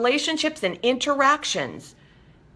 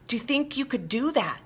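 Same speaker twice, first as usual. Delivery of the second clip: ordinary delivery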